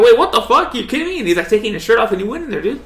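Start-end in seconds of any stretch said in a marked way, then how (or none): 0.0-1.2 much higher and louder, laughing in disbelief; imitating a shocked crowd with a laugh. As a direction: react like a stunned crowd, cracking up. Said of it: "Everyone was like".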